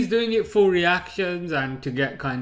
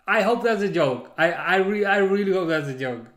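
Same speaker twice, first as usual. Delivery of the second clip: incredulous; 5 semitones higher, 6 dB louder than usual. Real, not acted. Reacting to chat claim.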